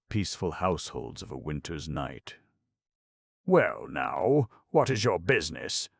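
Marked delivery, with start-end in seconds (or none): 3.4-5.9 high, loud demand; stern demand. Acted. Aunt confronting the stranger, stern high demand. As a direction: make him answer, firmly. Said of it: "demanded Aunt Susan".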